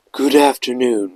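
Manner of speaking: lightly pompous, like a Concorde captain; a hint of a self-important manager. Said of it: "he went in this very pompous voice".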